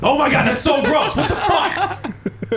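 shrieking in disgust, laughing; disgusted shout. Real, not acted. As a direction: yell out grossed out. Leg hair disgust reaction.

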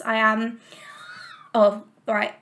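wheezing after a walk; short of breath, wheezy. Real, not acted. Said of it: "okay, so I am wheezing".

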